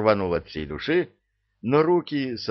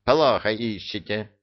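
haughty. Acted. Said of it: "надменно квакнул Иблис".

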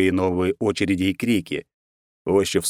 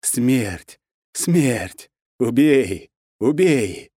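voices ordering her to kill; ominous commanding chant; commanding chorus; 4 semitones higher, much slower than usual. A narrator's reading. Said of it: "требовали, приказывали, повелевали".

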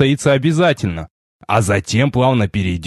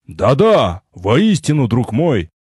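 put-on perked-up old sage; slower than usual. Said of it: "оживился старик".

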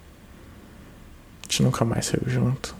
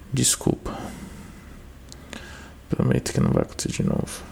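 whispering; 11 semitones lower, 4 dB quieter than usual. Acted. Whispered apology on voicemail.

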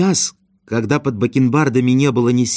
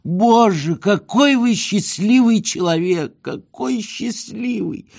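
put-on old man's delight; 9 semitones higher, slower than usual. A narrator's reading. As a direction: marvel at him like an awestruck old man. Old man envying Ostap's dreams. (высокий восторженный старческий голос, затихающий)

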